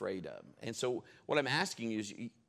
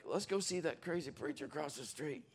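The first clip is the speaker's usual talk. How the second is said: mocking students; 4 semitones higher, 5 dB quieter than usual. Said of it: "they like".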